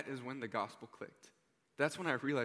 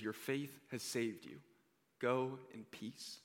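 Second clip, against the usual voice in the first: slow, softer and tender; gentle blessing; 4 dB quieter, slower than usual. Retold or imitated. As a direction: hand her peace slowly and softly. Jesus speaks gently to woman.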